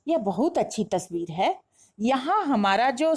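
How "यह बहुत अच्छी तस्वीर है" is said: demonstrated amazement, swinging up on है; mild exclamation of surprise; tone of wonder. Shown as a demonstration. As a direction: marvel at it, lifting the end. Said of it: "ये विस्मय का भाव देने लगा".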